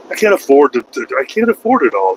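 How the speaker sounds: lightly voiced exasperated self; retold panic. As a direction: replay his own frantic protest. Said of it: "I'm like".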